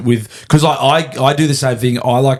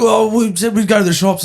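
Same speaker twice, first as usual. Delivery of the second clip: mock fussing; 9 semitones higher than usual. Mimicking own former fussing.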